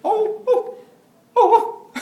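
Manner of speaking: high, loud, slow laughing howl; howling puppy. Retold or imitated. Pastor acting the puppy howling to music, high laughing howl. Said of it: "이렇게 짖어요".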